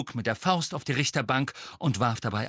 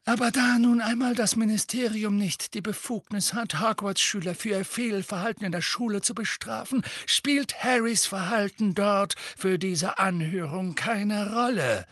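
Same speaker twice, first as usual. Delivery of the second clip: coolly polite; 12 semitones higher than usual. A narrator's reading. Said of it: "unvermindert höflich, kühlen Unterton".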